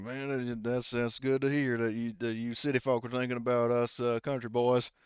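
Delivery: a hint of hillbilly in an appreciative reply; country boy. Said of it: "and he says".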